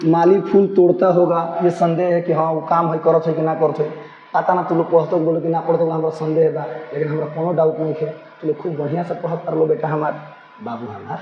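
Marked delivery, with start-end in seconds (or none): 2.6-11.2 softer, tender, fading to near silence; affectionate aside. Real, not acted. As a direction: coax the students fondly. Affectionate Bhojpuri aside to students.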